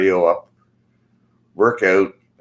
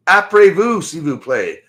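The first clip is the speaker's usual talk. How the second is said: mock French politeness; 7 semitones higher, 4 dB louder than usual. Mocking the polite stranger.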